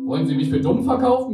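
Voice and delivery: annoyed, scolding the narrator; meckernd. A narrator's reading. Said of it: "meckerte der Passant mich an". (meckernd und lauter)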